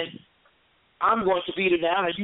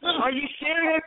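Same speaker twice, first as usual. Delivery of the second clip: put-on higher-pitched take on a disbelieving child; imitated granddaughter; 9 semitones higher than usual. Granddaughter questioning grandma's threat, mildly incredulous. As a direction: lightly voice an incredulous girl. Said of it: "So she was like".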